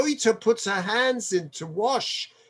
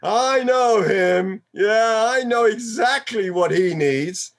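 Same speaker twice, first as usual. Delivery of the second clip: smug judging. Retold or imitated. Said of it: "He's gonna see".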